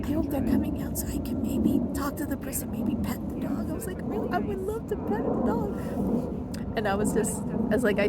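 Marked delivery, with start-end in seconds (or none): 0.0-3.7 eager hope. Retold or imitated. Hoping to meet a big dog. 4.0-6.8 high, slow, dreamy longing; longing delight. Retold or imitated. Longing to pet a fluffy dog.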